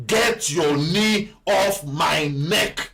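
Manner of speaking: slow, drawn-out rebuke; defiant command. Shown as a demonstration. Pastor orders the oppressor off his neck, slow and firm. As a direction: spell out each word of the rebuke slowly. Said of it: "we are going to tell whosoever".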